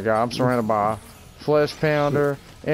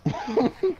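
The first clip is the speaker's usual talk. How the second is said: excited shout; 12 semitones higher than usual. Real, not acted. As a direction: yell it out hyped. Shouted game order, high and loud.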